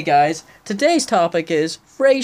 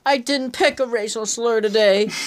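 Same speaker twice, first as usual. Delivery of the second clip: schoolkid excuse; 6 semitones higher than usual. Pretend. Mock schoolkid excuse to teacher.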